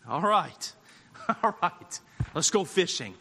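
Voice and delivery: low, soft, resigned sigh of agreement; reluctant Simon. Acted. Simon giving in to Jesus about fishing, resigned. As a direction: give in wearily, dropping pitch and volume. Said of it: "And in Simon's heart".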